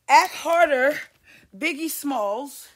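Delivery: loud, high, mocking shout; mock director yell. Mocking a set director, loud and high. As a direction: bark it like a pushy director.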